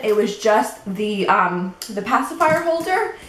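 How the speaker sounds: slightly winded, catching breath between words. Real, not acted. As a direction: talk while short of breath. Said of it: "I'm always out of breath".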